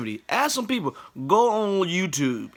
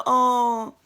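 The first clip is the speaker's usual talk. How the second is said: put-on high Filipino accent, matter-of-fact; Filipino grandma accent; 9 semitones higher, slower than usual. Filipino grandma prescribing Vicks, high Filipino accent. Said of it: "She said".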